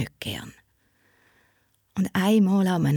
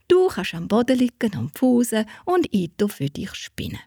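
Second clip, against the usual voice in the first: soothing whisper; 3 semitones higher than usual. Acted. Saint comforts the girl.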